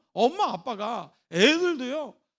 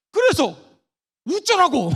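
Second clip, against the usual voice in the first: loud, scornful so-what; loud scornful "so what do you want me to do?"; dismissive retort; 4 semitones higher, 11 dB louder than usual. Shown as a demonstration. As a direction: throw it back with contempt. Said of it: "절대로 하면 안 되는 맞장구가 있습니다".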